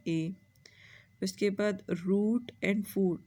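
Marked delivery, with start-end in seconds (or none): 1.9-3.2 "root and foot" said slowly, the end sounds held; slow rhyme demo. Shown as a demonstration. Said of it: "इसकी sound क्या है". ("root" और "foot" को धीरे-धीरे खींचकर बोलें)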